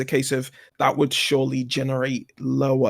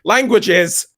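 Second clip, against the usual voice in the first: mock despair; 3 semitones higher than usual. Complaining about tricky Spanish inflections, mock despair. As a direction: lament it in mild mock horror.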